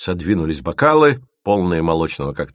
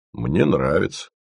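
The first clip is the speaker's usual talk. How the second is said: mildly bashful admission; embarrassed. Acted. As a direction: admit it shyly, without raising the voice. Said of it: "смущённо сказал Пармезан". (смущённо)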